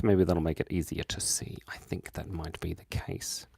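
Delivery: soft whisper to yourself; whispered afterthought; whispered aside. Real, not acted. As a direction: mutter while concentrating. Muttering to self while drawing.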